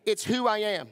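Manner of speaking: rallying call for them to echo; call to repeat. Shown as a demonstration. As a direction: lead the congregation in a loud refrain. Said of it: "repeat after me".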